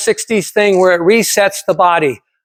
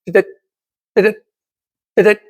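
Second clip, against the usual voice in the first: EKG beeping; 2 semitones higher, much faster than usual. Retold or imitated. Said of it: "the E K G machine's going".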